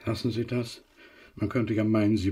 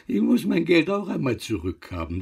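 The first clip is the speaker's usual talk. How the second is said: higher, louder, pushing the demand; insistent; 7 semitones higher, 5 dB louder than usual. Acted. Moneylender demanding repayment, raised insistent voice. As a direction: press her for the money.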